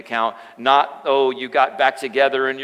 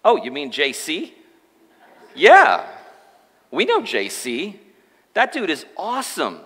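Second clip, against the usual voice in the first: casual alien; 4 semitones higher than usual. Retold or imitated. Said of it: "And the alien says".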